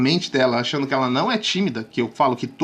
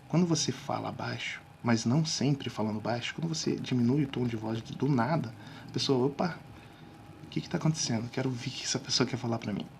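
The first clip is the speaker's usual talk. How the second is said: much softer, keep it hushed and low; quiet voice; 4 semitones lower, 10 dB quieter than usual. Shown as a demonstration. Coach keeps talking softly to show the effect. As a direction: lean in and speak softly. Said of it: "um tom de voz baixo".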